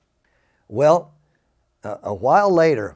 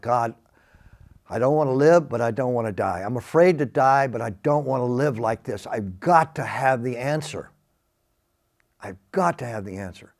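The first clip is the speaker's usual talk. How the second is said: desperate prayer. Retold or imitated. Alone outside the house, begging God, desperate pleading. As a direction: beg God for an answer, breaking down.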